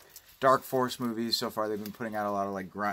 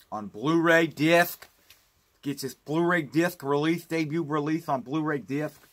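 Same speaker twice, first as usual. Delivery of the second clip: odd put-on announcer voice; 3 semitones higher, 3 dB louder than usual. Talking up the Trilogy of Terror Blu-ray, mock radio host voice. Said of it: "Don't know why I'm talking like that".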